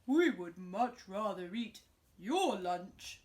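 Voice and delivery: loud, slow greedy animal; loud slow greedy beasts; creature voice. Acted. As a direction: demand it like hungry beasts.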